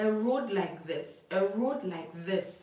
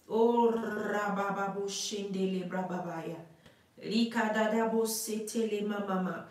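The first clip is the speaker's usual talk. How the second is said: speaking in tongues. Real, not acted. Speaking in tongues mid-prayer.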